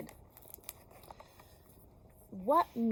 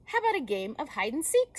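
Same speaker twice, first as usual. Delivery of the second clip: fast eager Sheep voice; 5 semitones higher, 5 dB louder, faster than usual. Acted. Sheep suggests a game.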